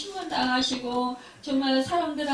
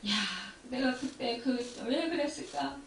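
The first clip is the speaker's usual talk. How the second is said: softer self-reproaching lament; lamenting to himself; 4 dB quieter than usual. Retold or imitated. Peter reproaches himself inwardly, a soft lament. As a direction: sigh it out as inner regret. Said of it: "자기 자신을 막, 책망하고".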